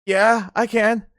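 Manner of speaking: lightly voiced teen caught out; sheepish son. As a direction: drag it out guiltily. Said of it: "He goes".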